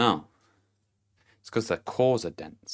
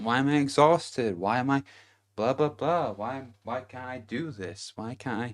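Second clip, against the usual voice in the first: higher-pitched mock complaining of the overgiver; exasperated questioning; 4 semitones higher than usual. Imitating drained people who question why they are exhausted, mock exasperated. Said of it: "And then they question".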